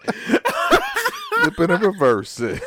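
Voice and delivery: high, slow, giggled quote; cracking up while quoting a lyric; laughing. Real, not acted. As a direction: squeeze the words out through real laughter. Laughing while quoting the song line.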